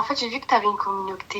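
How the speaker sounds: whispered, almost no voice; real whisper to the host. Real, not acted. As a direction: keep it hushed and private. Caller speaking low on stream.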